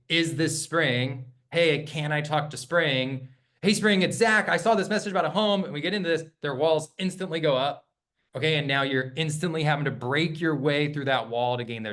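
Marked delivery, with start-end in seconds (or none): 0.1-5.6 salesy stranger on the phone, fast at the end; pushy cold-call opener. Shown as a demonstration. Agent opening a cold call, salesy and rushed. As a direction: sound like a cold caller. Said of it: "the second you come on and say".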